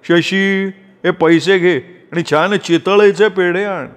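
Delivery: lightly voiced father. A narrator's reading. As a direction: send him off like an indulgent father. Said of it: "म्हणाले".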